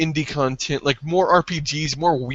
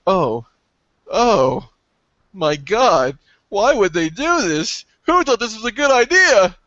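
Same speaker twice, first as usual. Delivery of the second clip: acted dismay, building higher and louder; exasperated disbelief; 4 semitones higher, 4 dB louder than usual. Acts dismay at bad controller.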